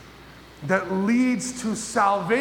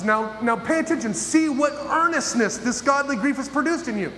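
urgent appeal; 6 semitones higher than usual. Acted. Preacher voicing Paul's urging.

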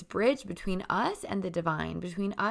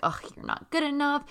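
higher, mocking inner critic; 9 semitones higher than usual. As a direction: sneer it like a belittling inner voice. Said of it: "this voice can sound like".

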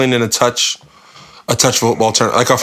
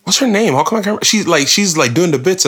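frustrated recall; 8 semitones higher than usual. Real, not acted. Straining to recall a name.

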